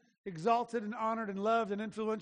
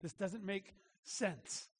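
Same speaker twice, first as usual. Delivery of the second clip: muttered complaint; 3 semitones lower, 8 dB quieter, slower than usual. Retold or imitated. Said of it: "I said that this morning".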